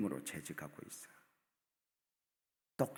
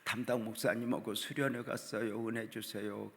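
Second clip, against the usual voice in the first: retold prayer. Father praying for his daughter at retreat, retold prayer. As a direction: imitate a parent's earnest, chanting plea. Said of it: "기도해".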